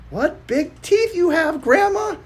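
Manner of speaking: a hint of a scared stammer; nervous stutter. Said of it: "stuttered Little Red Riding Hood".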